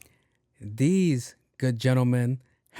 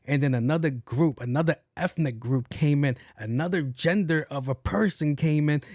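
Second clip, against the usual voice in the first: imitated officer's indignant grilling; mock interrogation, pressing each point; going off. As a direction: retell it as an incredulous telling-off. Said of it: "he's going off on the lady".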